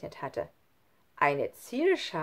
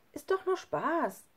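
whisper; 9 semitones higher than usual. Acted. Schlunz brushing it off.

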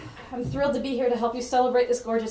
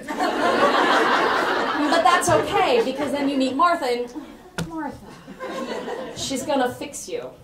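speaking through real laughter, higher and louder; laughing; 6 semitones higher, 7 dB louder, slower than usual. Real, not acted. Speaker laughing at her own joke to the audience.

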